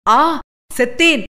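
understated dying shriek; dying scream. Acted. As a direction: cry out as if struck down. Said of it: "என்று அலறியது".

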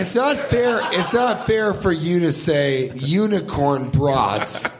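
"not" punched and held, slowly; stress on not. Acted. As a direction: lean hard on "not fair". Indignant complaint about unicorn brats.

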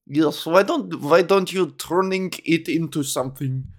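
light put-on Russian accent; playful Russian accent in broken English; mock Russian accent. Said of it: "now I'm talking like a Russian".

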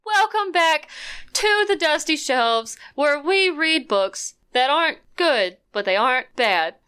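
lightly voiced teacher welcoming the class; slightly slow, sing-song teacher intro, starting high and stepping down; a hint of a teacher addressing pupils. Shown as a demonstration. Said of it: "trying to do it in my teacher voice".

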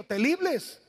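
imitated Chinese accent with L for R; a brief mock Chinese accent on the r. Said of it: "dice el chinito".

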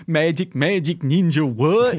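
a hint of Southern twang on the rap slang; Southern accent. Co-host mocking the comic's Juggalo dialogue, light Southern accent. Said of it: "I know I sounded a little Southern there".

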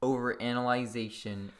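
said slowly and clearly; a slowed-down model line for a co-host; slow demo. Shown as a demonstration. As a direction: spell the intro out slowly for him. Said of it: "Say it slowly".

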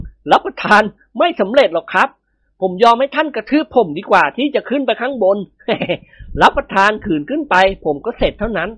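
frightened servant. Acted. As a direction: beg your master to spare you. เจ้าแห้วปฏิเสธอย่างกลัว. (เสียงบ่าวขี้กลัวอ้อนวอน)

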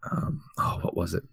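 quiet, searching for the word; trailing off while trying to remember; losing train of thought. Real, not acted. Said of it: "I'm completely blanking right now".

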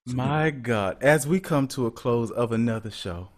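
slow, low, reverent show closing; mock-solemn church intro. Host ushers in the powerful moment, mock-solemn. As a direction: intone it like a solemn preacher, pausing between phrases.

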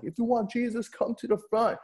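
high-pitched retold invitation to the congregation; lifted, high imitation of a preacher's call; mock altar call. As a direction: send up your younger self calling people forward. Mimics his own altar call.

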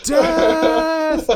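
high, loud rallying cry, near screaming; excited battle shout. Retold or imitated. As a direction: roar it like a charge into battle. Cheering the Riders of Rohan.

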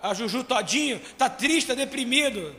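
words said through a laugh; chuckling at his own joke. Real, not acted.

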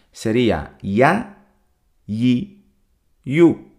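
"ya, yi, yu" each syllable set apart by pauses; syllable drill. Shown as a demonstration. Teacher drilling the letter ya's sounds for listeners, slow and clear. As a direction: drill "ya, yi, yu" slowly, one at a time. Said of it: "Vuelvo a repetir".

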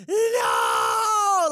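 high shrieking cry of no; anguished scream. Retold or imitated. Mocking a woman screaming at the election news, high anguished cry. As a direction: wail it out like your world just ended.

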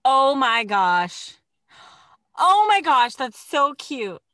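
delighted. Real, not acted. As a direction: gush over something adorable. Watching crane dance video.

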